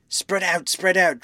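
high shouted order; crying out. A narrator's reading. Someone in the chasing crowd, high urgent call. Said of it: "cried someone".

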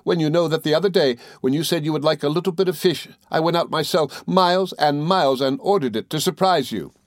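high, plaintive explanation; tearful protest. A narrator's reading. Dora recalling the fish she bought, mildly tearful. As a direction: lightly play a weeping wife. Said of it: "sobbed Dora".

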